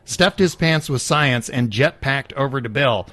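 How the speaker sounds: a touch of announcer pitch; infomercial voice. Acted. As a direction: read it as a TV promo. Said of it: "the infomercial voice".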